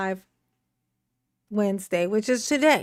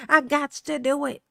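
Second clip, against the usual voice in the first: raised-voice repeat, livelier; retold insistence; 3 semitones higher than usual. Streamer retells overruling procrastination, insistent. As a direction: lift it up as a mock declaration.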